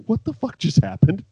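high stunned disbelief; baffled. Retold or imitated. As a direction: sound totally baffled. Quoting baffled Big Cat.

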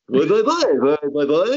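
muffled wah-wah adult noise, lightly mimicked; Charlie Brown adult voice. Joking with cohosts about a scene, mock Charlie Brown adult babble. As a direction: imitate the trombone-like grown-ups in Charlie Brown. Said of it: "a funnier version of Charlie Brown's parents".

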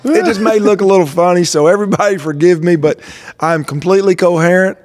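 numb mouth, slightly slurred; numb from the dentist. Real, not acted. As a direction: talk around numb lips. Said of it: "My mouth is just numb".

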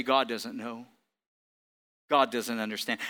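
low, soft, sly voice of Satan; Satan's lie. Retold or imitated. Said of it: "And he would say".

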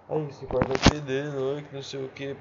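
whiny nagging mother impression; mocking mom voice. Mocking his mother's complaints.

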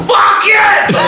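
sudden high yelled curse; muted-mic shout at a caller; mock shout at caller. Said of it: "so I can be like".

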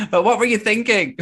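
high, loud, disbelieving question; what were you thinking; incredulous. Real, not acted.

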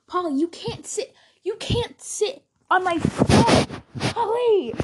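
rising exasperated scold at the cat. Real, not acted. Owner scolding her cat off the phone, rising exasperation.

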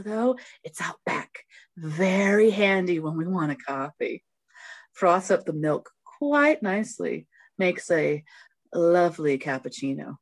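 breathy, teasing shop lady; flirty Bev voice. Acted. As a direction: read it like a flirt. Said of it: "a different take from Mysterious".

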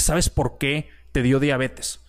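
slow, put-on voice of a visiting priest; a slow question, voiced as the priest at the bedside. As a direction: priest asks the sick boy in a slow, put-on voice. Priest visits him in hospital.

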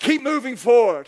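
slow, emphatic exhortation; drawn-out preaching charge; rallying preacher. Real, not acted. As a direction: urge them onward from the pulpit. Preacher rallies the congregation.

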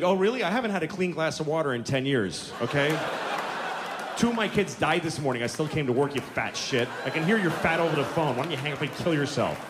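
mock furious operator; angry operator. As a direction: snap back at the whining caller. Pakistani operator snapping back.

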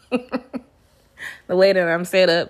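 slow, laughing through the words; can't keep a straight face. Real, not acted. Vlogger laughing while trying to stay serious.

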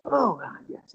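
lightly voiced well-spoken man; a hint of polite, well-spoken acknowledgement. Older angler acknowledges the answer, lightly well-spoken. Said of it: "and very well spoken".

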